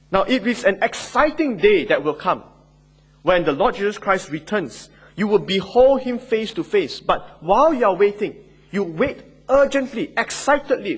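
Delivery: preacher stirring up eager expectation, excited; excited preaching. Acted. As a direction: lift them toward the coming day. Preacher grows excited about return.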